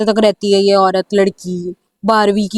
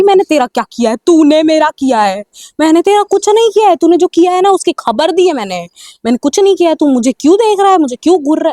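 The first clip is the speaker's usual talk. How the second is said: angry confrontation; 5 semitones higher than usual. Pretend. Girl angrily confronts the man staring at her, raised, accusing voice. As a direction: tell him off hard for staring.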